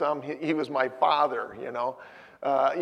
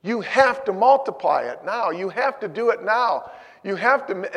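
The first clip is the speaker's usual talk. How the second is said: urgent plea; 4 semitones higher, 5 dB louder than usual. Retold or imitated. Pleading with God, retold.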